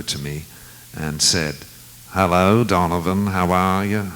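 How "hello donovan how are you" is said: a light Liverpool accent imitation; hint of a Liverpool accent on the greeting; unmistakable Liverpool accent. Beatle greeting Donovan in the dark, lightly imitated Liverpool accent. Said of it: "the accent was unmistakable".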